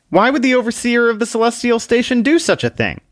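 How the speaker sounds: bristle, then back down; annoyed man. Acted. The man answers Book in annoyance, then hesitates.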